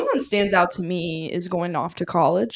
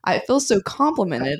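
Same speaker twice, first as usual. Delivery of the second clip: smiling voice. Real, not acted. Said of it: "I'm smiling so big right now".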